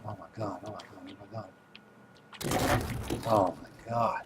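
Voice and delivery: hushed, panicky "oh my god"; scared whisper. Real, not acted. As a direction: whisper it in fear of being heard. A cannibal close by.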